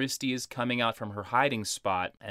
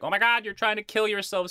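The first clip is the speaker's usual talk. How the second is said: high, rushed mock panic; mom freaking out; 10 semitones higher, faster than usual. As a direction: imitate a frantic mother, pitched way up. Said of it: "So she freaks out".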